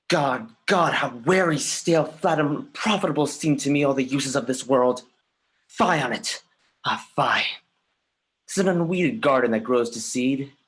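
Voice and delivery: rising anger against the world; anguished outcry. Acted. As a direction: spit out each word of disgust. Soliloquy swells into anguished outcry.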